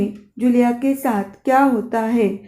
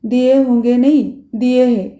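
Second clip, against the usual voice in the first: stern tone. Acted. Master correcting the governess, stern and firm. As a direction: set her straight, firmly. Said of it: "गृहस्वामी कड़े स्वर में".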